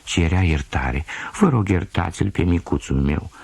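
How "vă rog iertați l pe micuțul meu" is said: whimpering mother dog. Acted. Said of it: "scheunând".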